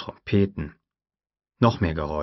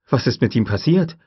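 higher, louder startled question; shocked he has vanished; alarmed question; 6 semitones higher, 5 dB louder than usual. A narrator's reading. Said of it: "fragte Gennaro erschrocken". (erschrockene Frage, höher und lauter)

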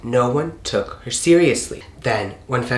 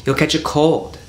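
higher, mildly cautioning aunt; warning; 5 semitones higher, 4 dB louder than usual. A narrator's reading. Auntie Patsy to wading Phyllis, mildly warning. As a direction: give a gentle storybook warning. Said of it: "Auntie Patsy warned".

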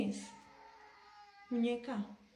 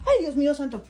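frightened cry; 2 semitones higher, 7 dB louder than usual. Real, not acted. Doll moves, alone at night.

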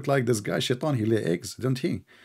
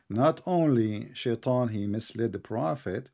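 slow, subdued restart; measured, careful pace, softly spoken; deliberately slow; 6 dB quieter, slower than usual. Real, not acted. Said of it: "I need to speak slow".

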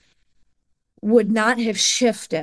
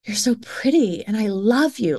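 whispered. Retold or imitated. Mother voicing her daughter's loving words in a whisper. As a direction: breathe it as a whisper. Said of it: "she's like".

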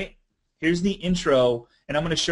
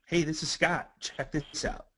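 soft, casual intro, dropping away at the end; demo video intro; 3 semitones higher, 7 dB quieter than usual. Shown as a demonstration. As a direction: say it lightly and drop to near whisper. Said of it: "I want everybody to practice this with me".

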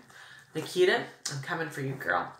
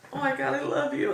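fangirl gush; 9 semitones higher than usual. Retold or imitated. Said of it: "I had a total fangirl moment".

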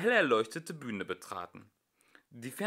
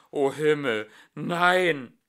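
panicked cry; 2 semitones higher, 7 dB louder, slower than usual. Acted. King's panicked thought.

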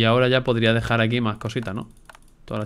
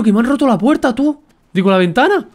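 loud, high outraged yells; furious shouting; 13 semitones higher, 8 dB louder than usual. Real, not acted. Gamer finding the base raided, real furious shouting. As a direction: scream at whoever wrecked the base.

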